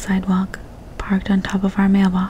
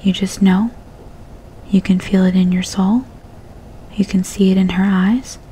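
sarcastic. Acted. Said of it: "sarcastically started rattling off cliches".

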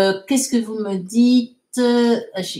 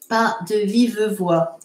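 "Pas de vive voix" spaced out word by word. Shown as a demonstration. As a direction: leave a gap after "Pas", hold "vive". Dictation repeated more slowly.

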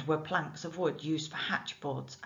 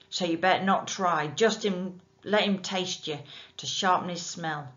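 loud, rough dockside voice; menacing working man; gruff bargeman; 6 dB louder than usual. Acted. Nick instructs Jim.

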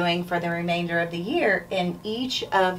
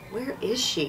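mutter; 5 dB quieter than usual. Acted. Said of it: "he muttered".

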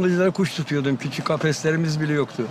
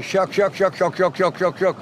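long run of evenly struck bird notes; coarse extended şakşak. Shown as a demonstration. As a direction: imitate a finch adding beat after beat. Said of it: "Buna eklemeli kaba şakşak". (eklemeli kaba şakşak taklidi)

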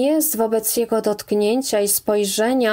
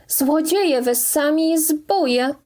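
higher, slow, furious accusing cry; slow, raised furious accusation; 6 semitones higher than usual. Acted. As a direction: hurl the accusation at them. Woman accuses the family.

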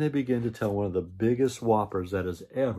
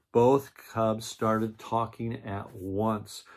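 slow, weighty read-aloud line; slow dramatic narration; much slower than usual. A narrator's reading. Narrator building up to the cubs' confession, slow and weighty. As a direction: lean into it slowly before the outburst.

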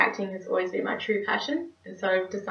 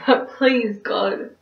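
theatrical begging, higher and louder, then sinking; desperate pleading; 5 semitones higher, 5 dB louder, slower than usual. Acted. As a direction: bargain frantically with God, as on stage. Cynthia pleads with God in monologue.

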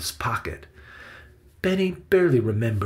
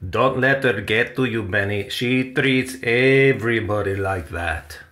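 Salvador's voice; 4 dB louder than usual. A narrator's reading. Salvador consoles Benny after Victoria leaves, reassuring character voice. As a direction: shrug off her temper to comfort the boy.

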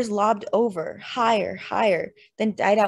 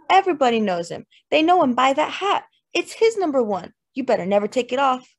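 louder, rising eager praise; lively praise; 4 semitones higher, 4 dB louder than usual. Acted. Lynette telling Eli about King's hat, getting louder. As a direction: talk up the hat, brighter as you go.

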